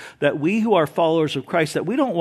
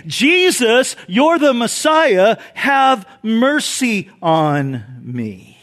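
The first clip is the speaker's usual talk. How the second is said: impassioned plea; 4 semitones higher, much slower than usual. Retold or imitated. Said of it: "what Bartimaeus was saying".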